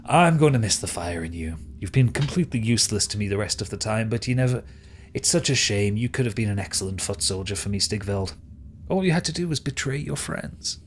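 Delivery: lightly voiced, mock-regretful villain; disappointed villain. Villain laments a lost foot soldier to Stigveld, mildly regretful. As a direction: deliver the reproach with measured theatre.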